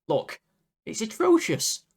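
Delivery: very high squeal of dismay; exasperated, squeaky exclamation; appalled outburst. Real, not acted. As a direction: let the pitch shoot up in disgusted disbelief. Appalled at the scores given.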